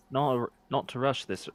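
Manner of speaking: second try, still lightly drifting Scottish; a hint of stray Scottish accent; retry the line with a faint Scottish slip; still-wrong Scottish accent. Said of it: "That's still the wrong accent".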